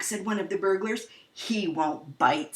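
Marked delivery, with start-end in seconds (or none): 1.3-2.5 low, slow crook's voice; lightly voiced burglar brushing it off; low sneering crook; low gruff burglar.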